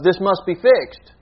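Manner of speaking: slow, insistent mock demand; acted demand. Preacher voicing the disciples' demand for a fix, insistent. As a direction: press each word as a demand. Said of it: "There was a demand of".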